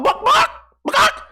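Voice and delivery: loud, very high squawks; shrieking mock chicken cries; imitated chicken clucks. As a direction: cluck like an agitated hen. Breaks into chicken noises.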